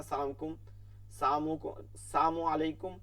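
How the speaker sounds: সামু আলাইকুম with the "la" of salaam swallowed; distorted greeting. Retold or imitated. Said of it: "ইহুদিরা এরকম দিছে না". (বিকৃত সালামের অনুকরণ)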